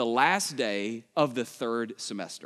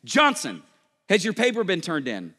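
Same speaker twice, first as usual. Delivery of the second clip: calling names; 3 dB louder than usual. Retold or imitated. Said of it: "he started shouting names".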